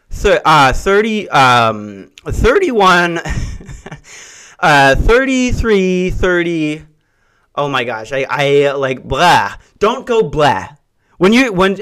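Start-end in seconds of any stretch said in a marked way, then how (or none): 0.1-6.8 nervous stumbling over numbers; flustered stammer. Retold or imitated. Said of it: "She went like this".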